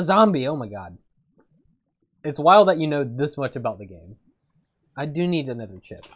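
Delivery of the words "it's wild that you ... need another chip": crunching chips. Real, not acted. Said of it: "I'm sorry that I'm eating chips".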